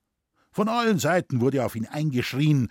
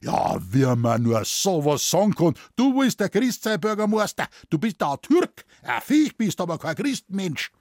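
higher, louder furious roar; raging bellow; 5 semitones higher, 4 dB louder than usual. A narrator's reading. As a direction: bellow it beside yourself with rage. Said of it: "war außer sich vor Zorn und brüllte zurück".

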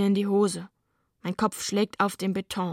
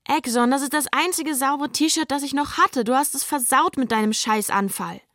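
higher-pitched angry scolding; 5 semitones higher, 3 dB louder than usual. Acted. Sister scolds Exxon over her only clean shirt, angrily. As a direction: tell him off for the ruined T-shirt. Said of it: "Elvira schimpft".

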